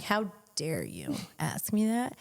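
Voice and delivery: slow, measured mock indignation; pissed off. Girlfriend offended he asked about washing her hair, pissed off. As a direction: retell being offended, drawing the words out. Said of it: "I'm getting pissed 'cause I'm like".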